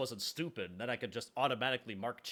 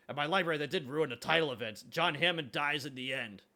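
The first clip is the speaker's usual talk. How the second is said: louder, higher, eager Morty delivery; Morty line, mock voiced; 4 semitones higher, 4 dB louder than usual. Quoting a Morty line to chat, louder and higher. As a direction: announce it like an excited kid. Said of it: "that's a Morty line".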